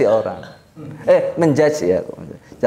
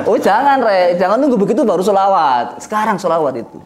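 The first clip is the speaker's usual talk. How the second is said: urgent plea; 6 semitones higher than usual. Real, not acted. Preacher urging the congregation.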